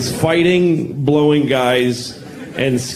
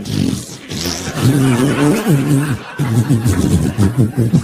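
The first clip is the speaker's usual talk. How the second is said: asshole's laugh; 5 semitones lower than usual. Retold or imitated. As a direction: silly laugh as a body part's voice. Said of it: "that's how my asshole talks".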